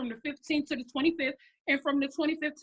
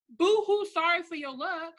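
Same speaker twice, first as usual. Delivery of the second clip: higher-pitched mock sympathy, loud on the boo-hoo; mocking pity; 3 semitones higher, 4 dB louder than usual. Coach brushing off complaints about small paychecks, mocking pity. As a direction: dismiss their whining with fake pity.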